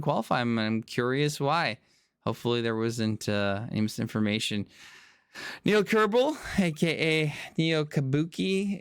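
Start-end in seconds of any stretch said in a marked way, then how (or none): 5.6-8.8 excited call-out. Real, not acted. Calling out a lead manager.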